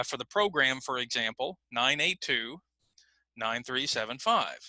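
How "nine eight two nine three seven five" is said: "nine eight two" as one group, pause, then "nine three seven five"; grouped phone number. Shown as a demonstration. Teacher shows how phone numbers are chunked. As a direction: chunk the digits with a break between groups. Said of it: "notice I'm grouping these numbers together".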